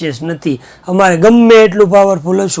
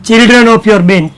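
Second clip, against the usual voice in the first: slow dictation; 2 semitones higher, much slower than usual. Shown as a demonstration. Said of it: "teacher dictates an English phrase".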